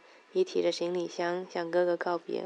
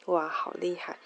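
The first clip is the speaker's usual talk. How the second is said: whisper. Acted. Girl admiring the painting.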